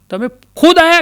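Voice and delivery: high, loud disbelief; stunned devotee asking God; amazed. Acted. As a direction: gasp it out in wonder.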